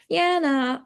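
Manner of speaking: waver in tone on "yeah, nah"; hesitant fall-rise. Shown as a demonstration. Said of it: "the fall rise is, like, politeness, hesitation, doubt".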